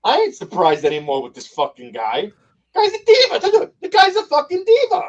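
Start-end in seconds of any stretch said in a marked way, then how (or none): 2.7-5.0 laughing as he calls him a diva; laughing scorn. Real, not acted. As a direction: scoff through laughter. Laughing mockery of goalie.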